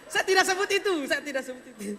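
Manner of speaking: laughing denial. Real, not acted. Denying a joke while laughing.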